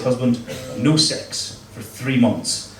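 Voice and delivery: slow, deliberate stern wife. Retold or imitated. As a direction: lay down the law slowly. Wife laying down the law.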